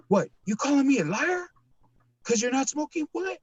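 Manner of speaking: high-pitched imitated Hispanic accent, indignant; mock Hispanic accent. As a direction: challenge him in a high, put-on Hispanic accent. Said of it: "Hispanic, like, uh, barely speaks any English".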